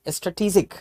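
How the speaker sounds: स्ट्रेटेजिक said stuh-tee-jik; स्ट्रेटेजिक with a short first vowel and ee; teacher models स्ट्रेटेजिक; correct strategic. Shown as a demonstration. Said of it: "ये नहीं कहते हैं स्ट्रैटेजिक".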